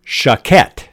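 Choquette said as "sho-KET", stress on the end; a careful French reading of Choquette; French pronunciation. Shown as a demonstration. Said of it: "I think it's pronounced".

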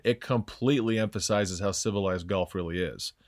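put-on a light, slowed English Hugh Grant accent; lightly voiced posh English accent, unhurried. Host mocking golf's manners in an English accent. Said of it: "in a Hugh Grant accent".

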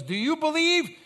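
retold yell. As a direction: yell it back at the crowd, easing at the end. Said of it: "he yells back at them".

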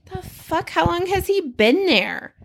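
high-pitched startled question; retold disbelief. Woman spotting a boy behind the boat, retold startled disbelief.

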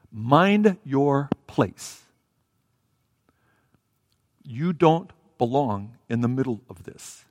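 slow, measured reprimand; stern rebuke. Acted. Those leading the way to the beggar, stern rebuke. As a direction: put him in his place, word by word. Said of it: "this is a sharp rebuke".

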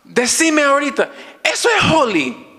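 high, eager imitation of his friend whispering gossip; excited friend. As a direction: mimic an excited friend pointing someone out. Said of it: "Me agarra y me dice". (imitando a una amiga emocionada, voz aguda)

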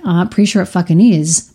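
mild snarky retort; a touch of passive-aggressive snipe; bitchy. Retold or imitated. Imagining a snide comeback to a cold friend, lightly bitchy. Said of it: "say it in a bitchy way".

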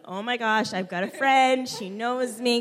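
put-on mildly excited retelling of a child's relief; amped. Shy pupil thrilled to know the teacher, mildly amped. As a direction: recall being amped, lifting on the key word. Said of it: "I was amped. I was like".

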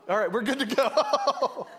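slow, high, laughing satisfied husband; husband voiced. Pastor voicing Paul, slow satisfied mock husband. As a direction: play the contented husband, drawn out. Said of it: "He's like".

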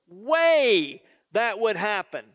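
slow, stretched-out disbelief; incredulous. Acted. Peter answering Jesus's prediction, incredulous. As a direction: refuse to believe it, dragging out the words. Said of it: "Peter is incredulous".

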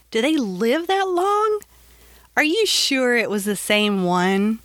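high, amazed question; surprised. Retold or imitated. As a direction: ask in disbelief. Her own surprised question.

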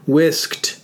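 "Whisked" carefully enunciated, K then T; "Whisked" as a deliberate wis-k-t; careful pronunciation. Shown as a demonstration. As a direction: work to land both K and T in "Whisked". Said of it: "I can't get it out correctly".

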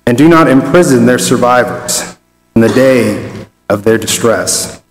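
measured, deliberate Bible reading; a preacher reads the Bible passage aloud, solemn and measured; scripture reading. Acted. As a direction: read the verses to the congregation with weight.

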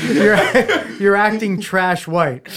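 slow, laughing delivery of the quote; laughing through it. Retold or imitated. Repeating his mother's line to friends, laughing. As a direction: laugh the words out slowly.

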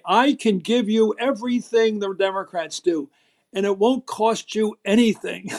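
slow, lightly put-on upper-class American accent, sarcastic; a touch of Roosevelt's upper-class accent, mocking the Republicans. Imitating Roosevelt's upper-class accent mocking Republican promises, sarcastic. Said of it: "that great upper-class accent of Roosevelt".

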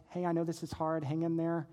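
low, softened reassurance; understated, tender aside; retold gentle encouragement. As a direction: quote a quiet word of comfort. Retold husband comforting his wife.

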